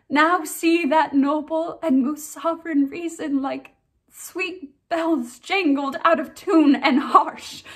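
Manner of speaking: tragic heroine sorrow. Acted. Ophelia's grief speech, performed.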